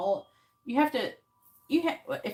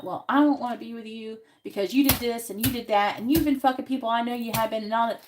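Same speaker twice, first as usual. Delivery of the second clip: louder, fast accusing rant; blaming rant; 2 semitones higher, 5 dB louder than usual. Shown as a demonstration. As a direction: hurl the blame at him in a rush. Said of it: "No, don't make it like that".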